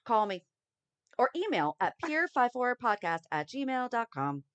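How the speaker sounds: over eager infomercial. Acted. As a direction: pitch it like a TV infomercial. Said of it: "That's my infomercial voice".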